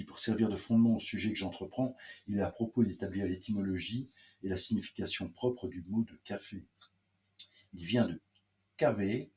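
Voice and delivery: measured formal literary reading; carefully phrased read-aloud voice. Acted. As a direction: read an old letter aloud to listeners. Reads the etymology aloud.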